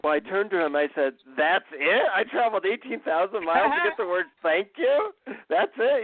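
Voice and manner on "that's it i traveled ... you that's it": high, indignant rising questions; disappointed disbelief. Retold or imitated. Visitor protests to the guru after travelling so far, indignant disbelief. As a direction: act out being let down and incredulous. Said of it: "I was pretty disappointed and pissed off".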